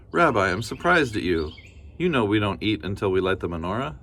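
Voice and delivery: a hint of a cheerful granny; kindly grandmother. Baba Brena thanking the bear, lightly voiced granny.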